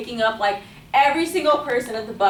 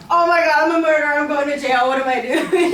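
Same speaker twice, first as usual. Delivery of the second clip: raised, hammed-up panicky outburst; acted panic; 3 semitones higher, 3 dB louder than usual. Speaker caught beside the owner's dying dog, acted panic. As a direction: blurt it out in mock horror at yourself.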